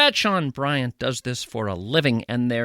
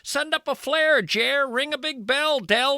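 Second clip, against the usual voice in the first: much higher, reassuring singsong; high singer voice; 11 semitones higher than usual. Acted. A singer reassuring Revere with fifty ways, high singsong. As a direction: lift it up and lilt the list. Comic voicing of a singer.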